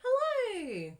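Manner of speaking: high, loud sing-song hello; cheery hello. Pretend. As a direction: greet it like an old friend. Greeting the stamp set.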